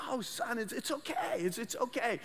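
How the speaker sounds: put-on calm the crying boy down gently; soothing dad. Dad comforting his son over the broken tablet, soft and soothing. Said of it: "his dad says".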